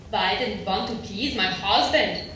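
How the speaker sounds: put-on therapist with a German accent. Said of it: "The therapist had a German accent".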